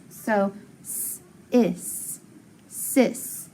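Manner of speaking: "s", "is", then "sis", each part said apart with a short I; teacher blending the sounds for the class; sounding out sis. Shown as a demonstration. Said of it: "I has to be short".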